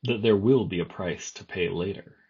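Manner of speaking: sly coaxing creature voice; dark whisper behind you. Acted. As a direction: wheedle it with a hidden laugh. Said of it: "a coax and a wheedle and a sly laugh".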